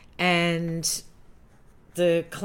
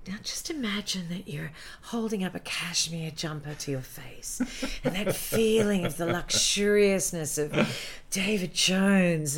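hushed, dreamy direction; dreamy ad man. Retold or imitated. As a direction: coax like a luxury ad director. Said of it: "he'd say things to me like".

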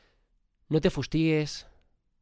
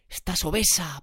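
dramatized accusation, hammed-up; mock horror; 3 semitones higher than usual. Mimicking social media's body-shaming, mock-horrified. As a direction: exclaim it as a mock scandal. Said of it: "Parece un drama de la hostia".

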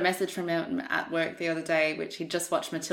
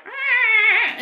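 weird reverent ah; 8 dB louder than usual. Retold or imitated. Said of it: "in this sort of weird, like, bow".

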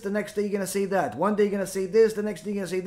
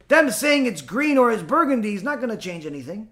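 normal talking voice

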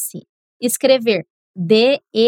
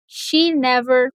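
She never, deserts, her projects, slowly in chunks; slow, chunked repeat; much slower than usual. Shown as a demonstration. Teacher paces the class through the sentence slowly. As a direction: spell it out slowly with pauses. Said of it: "Say it with me".

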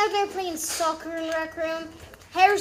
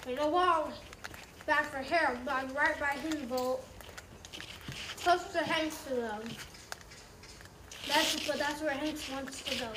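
game announcer; 4 dB quieter than usual. Pretend. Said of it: "I'll be the game announcer for you guys".

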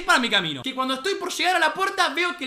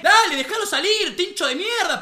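raised, mildly angry mock yell; retold yelling; 4 semitones higher, 3 dB louder than usual. Girl outside the fence telling the rugby player off, mock yell. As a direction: call it out higher, imitating her outrage. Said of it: "empezaron a gritarle".

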